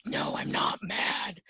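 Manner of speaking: drawn-out, exasperated mock denial; angrier denial. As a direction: stretch it out in acted exasperation. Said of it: "makes you even more angry".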